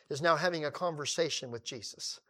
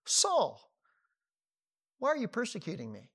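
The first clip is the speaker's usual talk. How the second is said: voice from heaven; 5 semitones higher than usual. Acted. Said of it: "And the voice says".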